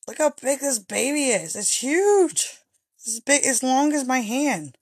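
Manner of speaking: excited. Real, not acted. Showing off the huge baby chinchilla.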